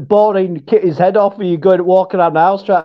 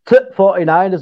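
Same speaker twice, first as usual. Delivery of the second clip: Yorkshire clipped THE before "forty-niners"; Yorkshire accent. Shown as a demonstration. Co-host repeats it for the Yorkshire, in accent. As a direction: swallow THE into a short T, Yorkshire style. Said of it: "that's for the Yorkshire".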